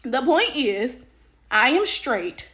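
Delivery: ordinary talk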